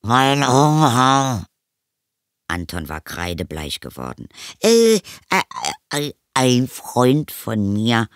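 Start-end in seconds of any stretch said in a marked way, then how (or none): 0.0-1.5 slow, higher wail of a hidden vampire; muffled wail. A narrator's reading. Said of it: "schrie eine dumpfe Stimme". 4.6-8.1 put-on high, stammering boy voice; stall, then blurt a cover story; flustered boy. A narrator's reading. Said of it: "sagte er schnell".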